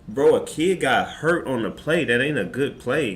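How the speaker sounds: mild indignant challenge; retold angry call-out. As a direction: call him out in front of everyone. Confronting coach about hurt kid.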